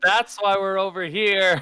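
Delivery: yelling out. In a role-play scene, a character calls to the others: shouting out. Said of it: "shouts out".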